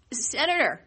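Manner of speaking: laughing, words breaking up. Real, not acted. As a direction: giggle through the word. Laughs at senator's yawn.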